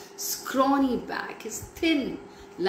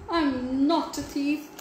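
whispered plea; 6 semitones higher than usual. A narrator's reading. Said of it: "he whispered as the gentleman".

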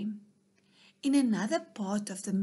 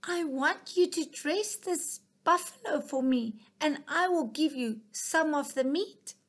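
higher, bossy mouse giving orders; commanding; 5 semitones higher, 3 dB louder than usual. Acted. Mouse commanding the hungry fox, bossy and higher. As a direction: lay down the terms like a little boss. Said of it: "commanded the mouse".

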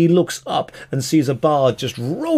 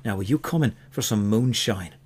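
brisk Irish brogue, cutting someone off then settling; Irish elf. Acted. Elf stops the bard with the flute, brisk Irish accent. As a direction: start urgent in an Irish accent, ease down. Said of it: "the elf is Irish".

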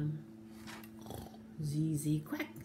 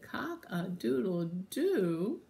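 slow, drawn-out crow; rooster's voice restored; slower than usual. Acted. Rooster who finally got his voice back, crowing slowly. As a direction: crow in full voice, stretched out. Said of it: "finally got his voice back".

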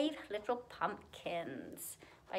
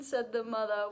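put-on lilting rhymed storytelling for children; animated children's story reading; story narration; 3 dB louder than usual. A narrator's reading. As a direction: read a picture book aloud in rhythm. Reads a rhyming picture book aloud.

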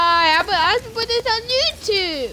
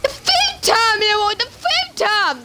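frustrated yell; 3 semitones higher than usual. Real, not acted. Loses again in game, yells.

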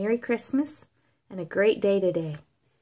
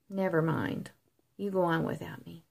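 husky tone. Acted. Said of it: "in a husky tone of voice".

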